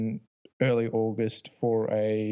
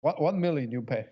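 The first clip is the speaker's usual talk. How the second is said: put-on Russian accent; 4 semitones higher than usual. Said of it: "Yeah, that's better".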